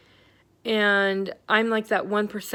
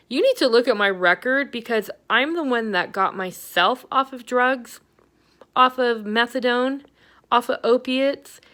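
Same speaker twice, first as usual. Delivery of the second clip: retold angry rant; 3 semitones higher, 4 dB louder than usual. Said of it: "I was really mad".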